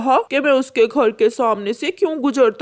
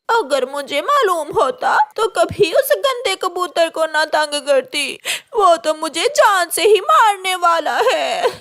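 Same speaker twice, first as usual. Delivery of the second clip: tearful regret, voice breaking; crying; 3 semitones higher than usual. Acted. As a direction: weep over the mistake. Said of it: "गोरी उस खोखले पेड़ में बैठी रो रही थी". (रोते हुए पछतावा)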